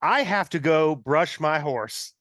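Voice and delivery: a lightly played cold psycho calm; Patrick Bateman. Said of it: "Very Patrick Bateman".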